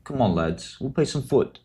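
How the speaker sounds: put-on English accent. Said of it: "You want my best English accent?".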